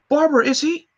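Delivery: high, tense plea; ask, dreading the answer; frightened question. Acted. Tim fearing the worst.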